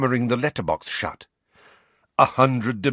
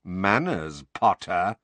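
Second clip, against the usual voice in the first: dangerous; slower than usual. Acted. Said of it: "said Snape dangerously".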